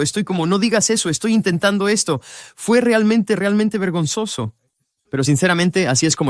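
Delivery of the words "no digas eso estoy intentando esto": defensive. Retold or imitated. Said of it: "yo ya estoy como a la defensiva, lleno de orgullo".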